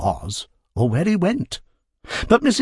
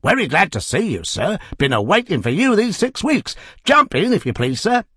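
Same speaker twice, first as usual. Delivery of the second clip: cab driver; 8 semitones higher than usual. Acted. Cab driver touting for fare.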